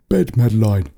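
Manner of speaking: mild narrated yell; restrained fatherly command; father's yell. A narrator's reading. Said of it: "her father yelled".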